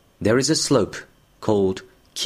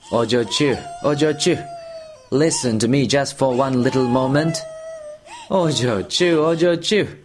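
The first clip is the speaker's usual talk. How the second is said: rising, more urgent pleading calls; 3 semitones higher than usual. Acted. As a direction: keep begging her, more insistent.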